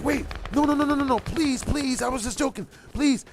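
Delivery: high-pitched desperate pleading imitation; mock begging. Girl saying she was just joking, mock begging. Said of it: "Starts begging me to touch her".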